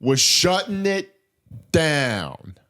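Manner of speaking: put-on loud slow Brooklyn accent. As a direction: bellow it Brooklyn style. Hammed-up accent repeat.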